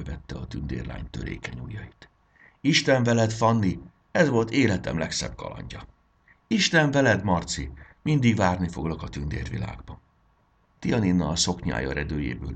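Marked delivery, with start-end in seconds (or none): 2.6-5.9 higher, louder heartfelt goodbye; the boy bidding his fairy friend farewell, moved; tender farewell. Acted. Boy's emotional farewell. 6.5-10.0 high, loud heartfelt goodbye; the fairy girl saying goodbye to the boy, fond; fond farewell. Acted.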